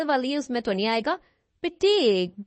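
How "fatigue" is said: fatigue with a crisp final g, said firmly; fatigue, model it loud and clear; model pronunciation. Shown as a demonstration. Teacher modelling fatigue for a student. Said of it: "बोल रही हूँ मैं".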